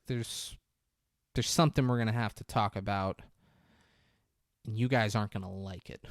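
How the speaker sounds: mom's grave announcement, retold; measured and serious, pausing before bad news; all serious. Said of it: "the mom gets all serious".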